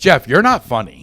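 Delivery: lightly imitated girlfriend who is over it; mock a partner gone unimpressed; fed-up girlfriend.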